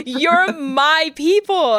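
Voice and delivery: high, drawn-out delight through laughter; overjoyed fan gushing. Retold or imitated. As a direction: gush giddily at a kindred spirit. Acting out delighted fan reaction.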